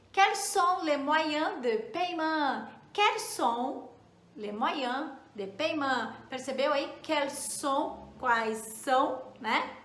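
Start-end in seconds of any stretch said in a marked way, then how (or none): 0.1-2.7 "Quels sont les moyens de paiement?" said slowly, each word clear; slow model to repeat. Shown as a demonstration. Teacher leads students to repeat the French question slowly. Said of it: "Repete aí comigo". 2.9-6.1 chunked repeat. Shown as a demonstration. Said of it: "Repete aí comigo".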